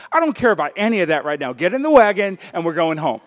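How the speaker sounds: a hint of a frazzled mom ordering her son home; exasperated mom. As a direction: hurry the kid along like a fed-up mother. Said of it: "what I hear it as is".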